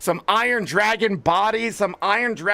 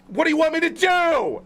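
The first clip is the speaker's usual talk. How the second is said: exasperated; 7 semitones higher than usual. Real, not acted. Ranting at writers, exasperated plea.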